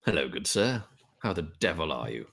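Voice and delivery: softly voiced courteous adventurer, falling pitch; lightly played gentleman's hello; genteel greeting. Adventurer greets the stranger in the hat, courteous.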